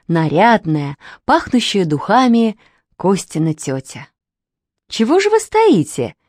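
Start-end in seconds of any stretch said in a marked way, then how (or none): 4.9-6.2 much higher, bright hostess welcome; cheerful. Acted. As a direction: greet the children cheerfully, pitch up high. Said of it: "весело сказала она". (весело, высоко, радушно)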